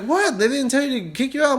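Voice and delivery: high, startled question; surprised. Retold or imitated. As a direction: ask in shock. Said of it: "He's like".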